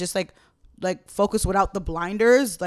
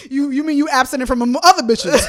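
laughing; 5 semitones higher, 11 dB louder than usual. Real, not acted. Joking about abstinence, laughing.

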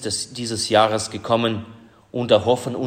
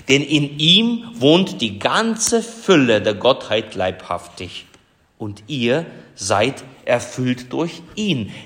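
scripture reading. Acted. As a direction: lay each phrase down deliberately. Reads the Colossians text aloud.

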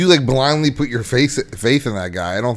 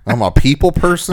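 incredulous mocking; 4 semitones higher than usual. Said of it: "What the fuck does that mean".

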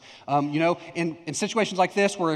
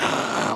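imitated noise. Mimes pastor with a gun.

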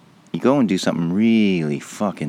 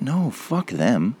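slow, higher mock boomer dismissal; mock selfish boomer; 6 semitones higher, much slower than usual. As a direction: drag it out like a smug pensioner. Mocking boomers' voice.

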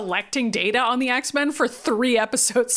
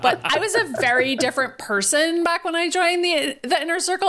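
airy Emma; 4 semitones higher than usual. Retold or imitated. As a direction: float it out, brushing Aurora off. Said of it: "she's like".

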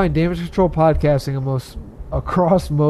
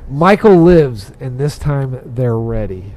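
horror trailer voice; 6 dB louder, slower than usual. Acted. Reading movie tagline.

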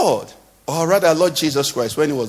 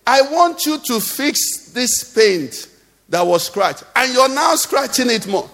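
higher-pitched, mock-indignant protest; indignant complaint; 5 semitones higher, slower than usual. Car owner confronting the panel beater over scratches, indignant. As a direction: act out an outraged car owner.

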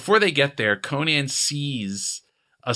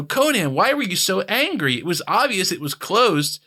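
lightly voiced friends, higher and reproachful; friends scolding; 6 semitones higher than usual. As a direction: gently scold the hothead. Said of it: "And they go".

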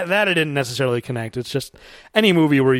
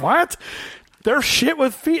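retold scream; 9 semitones higher, slower than usual. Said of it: "she screams".

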